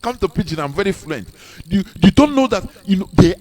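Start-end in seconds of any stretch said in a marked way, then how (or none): 0.0-1.3 mocking snob. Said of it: "some people are glamorizing it".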